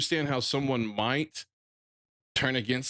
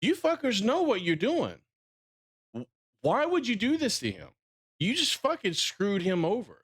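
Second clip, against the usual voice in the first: higher-pitched exasperated tirade, quickening at the end; exasperated rant; 4 semitones higher than usual. Retold or imitated. Fan ranting at Warner Brothers and Gunn over Cavill, exasperated and higher. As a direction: vent at the studio like you're fed up. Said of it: "I'm like".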